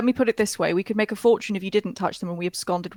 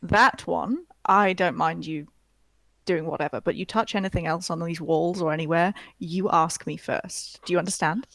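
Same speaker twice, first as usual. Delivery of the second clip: stern grandma voice. Acted. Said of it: "You have her exact tone of voice".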